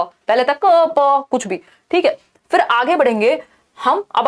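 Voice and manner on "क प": "क, प" stretched into long vowel sounds; just sounds. Shown as a demonstration. Teacher contrasting cooing with babbling, drawn-out bare sounds. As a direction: draw out "क, प" as separate noises. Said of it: "बस आवाज निकालना".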